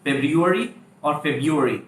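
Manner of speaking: February said slowly twice, two variants; February, very slow, both forms; two pronunciations. Shown as a demonstration. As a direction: model both ways of saying February, drawn out. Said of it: "Both are absolutely correct".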